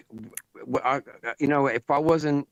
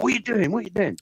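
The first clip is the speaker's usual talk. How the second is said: much higher-pitched mock outrage; retold indignant protest; 11 semitones higher, faster than usual. Retelling the bumped photographer's complaint, high indignant imitation. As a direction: imitate an affronted man protesting. Retold quarrel after bumping a man.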